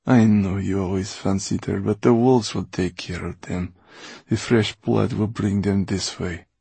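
lightly voiced cold schemer; a loud retort easing into offhand cruelty; callous Mortola. Voices Mortola answering Basta.

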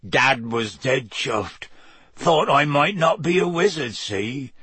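slow, gruff half-giant voice; big rough West Country giant; lightly voiced gruff Hagrid.

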